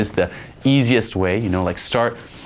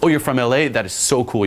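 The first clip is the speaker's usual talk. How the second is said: put-on delight, opening high; mildly hammed-up excitement; overblown enthusiasm; 3 semitones higher than usual. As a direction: feign being impressed by a hometown. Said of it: "you just overblow something that you like".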